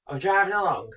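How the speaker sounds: mock dramatic. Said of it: "I went".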